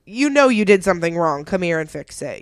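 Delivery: firm parent voice, not yelling; mommy tone. Retold or imitated. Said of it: "in that mommy tone of voice".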